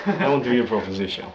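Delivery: lightly put-on Russian accent; Russian mobster. Mobster wanting to hear the offer, Russian accent. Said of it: "Or he's Russian, actually".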